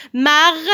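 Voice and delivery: "Marguerite" in four separate beats; syllable by syllable. Shown as a demonstration. Teacher counting syllables for children, word in separate beats. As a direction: separate each syllable of "Marguerite", sounding the final e. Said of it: "il y a quatre syllabes".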